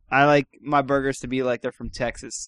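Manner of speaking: lightly voiced Texas accent. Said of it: "the worst Texas accent ever".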